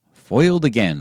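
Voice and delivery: loud hammed-up stage villain; melodrama villain. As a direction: ham it up like a silent-film villain. Mock melodrama line.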